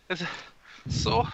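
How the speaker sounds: high-pitched puffed confusion; breathless unfit man; out of breath. Acted. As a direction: gasp between words, winded from the stairs. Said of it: "he's super out of breath".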